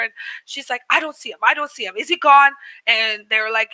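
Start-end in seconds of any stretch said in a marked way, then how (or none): 0.9-2.5 retold searching. Shop lady looking around for man.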